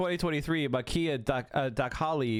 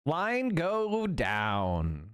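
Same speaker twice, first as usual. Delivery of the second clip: mock caveman; 2 semitones higher, much slower than usual. Mock caveman chant about sub counter.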